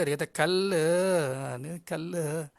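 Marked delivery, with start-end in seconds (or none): 0.3-0.9 put-on "Kala" in a Chennai accent, with a drawn-out final vowel; imitated Chennai accent. Teacher retelling a Chennai man's answer, imitated Chennai accent. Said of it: "ikut dia punya slang bahasa negeri dia". 1.9-2.5 "kala" with an added drawn-out vowel, Chennai style; imitated Chennai accent. Teacher repeating the funny answer, imitated Chennai accent. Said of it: "ikut dia punya slang bahasa negeri dia".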